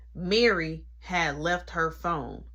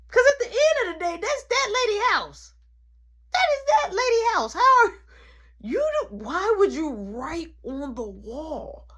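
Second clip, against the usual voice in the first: tone 1; 11 semitones higher, 3 dB louder than usual. Retold or imitated. Voicing deaf mama's outrage.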